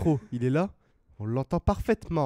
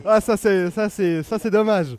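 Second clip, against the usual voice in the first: frustrated groan; 4 semitones higher, 7 dB louder, slower than usual. Real, not acted. Groaning at missed chance.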